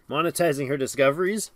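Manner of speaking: tickled incredulous question; amused disbelief. Real, not acted. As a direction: savour the odd phrase "Monetizing her discoveries?", delighted. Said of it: "That is fantastic".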